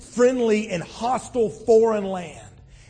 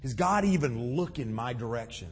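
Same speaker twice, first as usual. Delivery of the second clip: quiet wondering; 6 semitones lower, 8 dB quieter than usual. Retold or imitated. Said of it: "and you just wonder".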